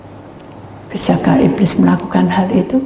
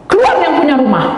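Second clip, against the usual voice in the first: higher, louder mimicked call; retold demand; 6 semitones higher, 5 dB louder than usual. Spirit demanding the householder come out, loud mimicked order.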